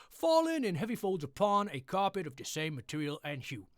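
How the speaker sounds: bright, lively storybook narration; happy story reading. Acted. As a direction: read Poe like a cheerful bedtime tale. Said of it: "this is my happy English voice".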